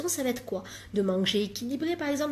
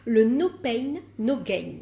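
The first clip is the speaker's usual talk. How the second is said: English words with a thick French accent; 6 dB louder, slower than usual. Real, not acted. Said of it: "mon accent tout pourri".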